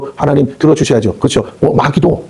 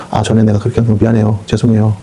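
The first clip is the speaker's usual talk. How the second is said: sheepish apology; 5 semitones lower than usual. Retold or imitated. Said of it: "꼬리 내리고 오는 일".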